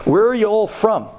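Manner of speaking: lightly voiced Brooklyn accent; hint of Brooklyn in a casual question. Host greets visiting guys over dessert, light Brooklyn accent. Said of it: "He was talking with a Brooklyn accent".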